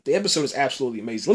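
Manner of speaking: fast, gushing rush of praise; getting too excited. Real, not acted. Reviewer carried away praising the episode, fast and excited. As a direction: rattle off "absolutely amazing" in an eager rush. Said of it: "I'm getting too excited".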